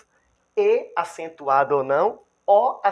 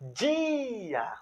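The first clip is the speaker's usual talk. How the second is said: "dia" with a long, raised I; stress on I; 6 semitones higher, 5 dB quieter than usual. Shown as a demonstration. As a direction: draw out the first vowel of "dia", then drop onto the A. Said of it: "O I, ele é tônico". ("dia" com o I tônico agudo e alongado)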